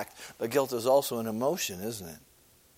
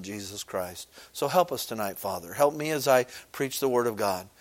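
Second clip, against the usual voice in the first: prayer; 2 semitones lower than usual. Acted. Leads a prayer.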